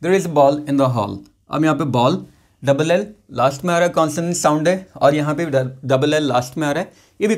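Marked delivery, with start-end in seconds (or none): 0.0-1.2 slow, clear classroom reading; slow example read. Shown as a demonstration. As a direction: read it out slowly for learners. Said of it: "Same ways". (धीमे साफ़ उच्चारण)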